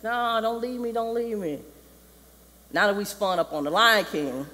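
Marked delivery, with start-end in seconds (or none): 0.0-1.6 high, pleading whine; mock crying. Simba begs his father to stay, mock tearful. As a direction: imitate a tearful plea, pitched up. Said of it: "just crying and stuff".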